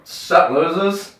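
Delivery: retold smug taunt; cocky greeting. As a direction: gloat slowly at those left behind. Retold gloating return to old seat.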